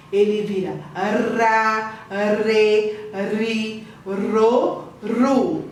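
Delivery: "ra, re, ri, ro, ru" with a light tongue-tap R; soft tapped R. Shown as a demonstration. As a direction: flick the tongue once on each R of "ra, re, ri, ro, ru". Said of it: "Esse R faz tremer a língua".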